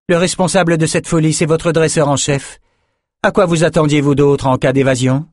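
high-pitched, reproachful questioning; accusing story character. Acted. Character blames the head trainer after escape, accusing high voice. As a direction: pin the blame, voice lifted.

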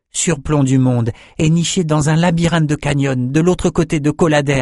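put-on young man boasting of a marvel; eager young Bannon. Bannon telling drinkers about the archives, eager high voice.

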